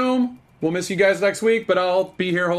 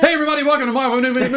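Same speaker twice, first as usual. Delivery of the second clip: mock show host intro; 10 semitones higher, 5 dB louder, much faster than usual. Host mocks his own intro.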